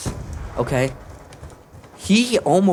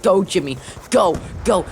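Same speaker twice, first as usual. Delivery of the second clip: cheering parent; 6 semitones higher than usual. Retold or imitated. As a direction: pretend you're the soccer mom yelling from the sideline. Parent cheering son at soccer.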